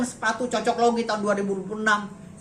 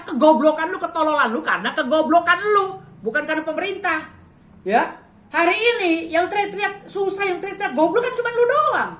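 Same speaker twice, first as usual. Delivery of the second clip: angry rant; 5 semitones higher, 3 dB louder than usual. Real, not acted. Ranting at critics.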